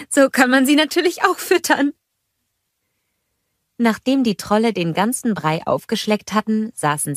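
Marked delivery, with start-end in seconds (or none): 0.1-1.9 higher, lightly amused character voice; playful aside after a laugh; Anna amüsiert. A narrator's reading. Anna lacht, spricht amüsiert. (amüsiert, mit höherer Stimme)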